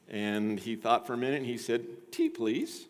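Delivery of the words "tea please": lightly mock-British polite reply, pitched high; rising, dainty attempt at a British gentleman; attempted British accent. The speaker answering the butler at tea time, attempted British accent. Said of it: "I can't do a British accent".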